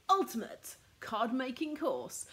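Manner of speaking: slow, with a weighty punch on ultimate; grand product title. Shown as a demonstration. Presenting her new course to viewers, slow and grandly stressed. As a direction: announce ultimate like a big launch title. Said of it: "I have to say it like that because that's how it should be said".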